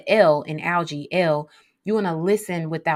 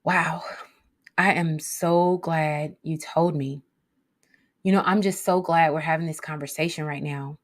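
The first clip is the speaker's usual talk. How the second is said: reassuring. Shown as a demonstration. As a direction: gently tell them you're glad. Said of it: "the G is gonna sound like this".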